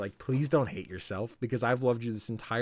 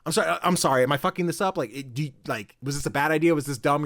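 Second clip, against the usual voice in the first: lightly voiced anxious, stumbling apology; imitated flustered apology; 4 semitones higher, 3 dB louder, faster than usual. Character apologizing to Sif for his idea, mildly flustered. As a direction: tumble through worried questions, pitched a bit up.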